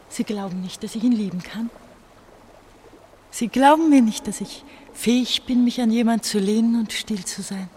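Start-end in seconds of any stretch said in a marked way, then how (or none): 3.3-7.7 much higher and louder, insisting; raised, pleading voice; loud outburst. Acted. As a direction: throw it at him, demanding to be believed. Bursts out, not believed.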